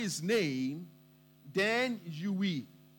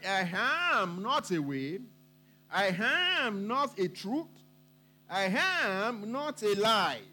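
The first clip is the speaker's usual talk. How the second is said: slow, weighty stress on a long AM; drawn-out emphasis; slower than usual. Retold or imitated. Preacher contrasts Jesus' claim for the congregation, slow emphatic AM. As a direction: stretch out AM in each declaration. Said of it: "He said".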